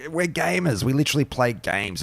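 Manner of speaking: high-pitched, exasperated retort; mock protest. Acted retort to gatekeeping players.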